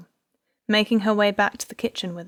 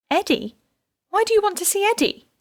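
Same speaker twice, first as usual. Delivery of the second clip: confused; 13 semitones higher, 4 dB louder than usual. A narrator's reading. Confused wife questions police.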